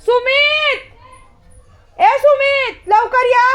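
high call across the house. Real, not acted. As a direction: shout his name so he comes quickly. Calling Sumit from afar. (दूरवरून सुमितला उंच आवाजात हाक मारणे)

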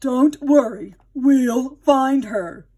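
reassuring father. A narrator's reading. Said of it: "Father said".

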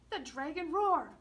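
loud, high dragon roar; hammed-up roar for the listeners. A narrator's reading. Boy acting out the dragon, loud playful roar.

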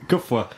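Gufwa as one word, GOOF-wa. Shown as a demonstration. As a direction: read Gufwa like a word, not letters. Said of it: "I read it as Gufwa".

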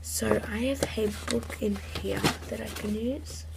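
hushed unvoiced whisper. Real, not acted. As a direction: whisper it to the camera. Whispering aside.

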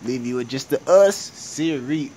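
high, loud playful yells; hype shouting. Real, not acted. Hyping himself after the Shakespeare line, loud playful shouts. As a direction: shout it hyped up.

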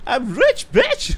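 high gloating squeal. Real, not acted. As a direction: crow about the money. Gloating after the round.

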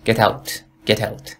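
slow "get out" with "out" as "eout"; Canadian "out". Shown as a demonstration. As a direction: start the vowel of "out" on eh.

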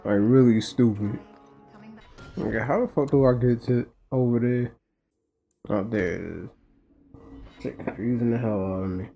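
usual speaking voice

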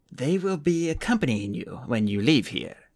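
a lightly voiced old woman, firm and strong; an old woman speaking with surprising strength; strong old woman's voice. The old woman announcing the guards, firm and strong. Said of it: "her voice surprisingly strong".

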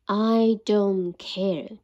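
very slow, drawn-out bear; sleepy bear. Acted. Bear pulling curtains.

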